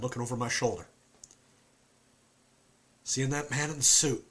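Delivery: a haunted Southern man; southern accent. Acted. Performs Luke with southern accent.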